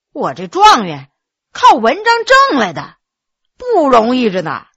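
a hint of a dazed, self-absorbed scholar; muttering scholar. Dazed scholar muttering to himself, lightly voiced. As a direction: mumble on as if in a daze. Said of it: "喃喃地说".

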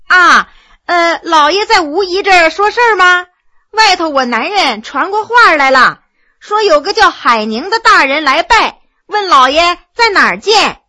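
lightly voiced servant woman, respectful and hurried; servant woman's voice.

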